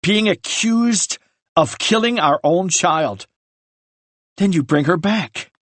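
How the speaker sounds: anguished rage. Acted. Ryan confronts brother over lies.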